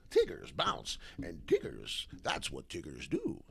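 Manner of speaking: a hint of the bouncy cartoon tiger; Tigger voice. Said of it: "Tigger bounce".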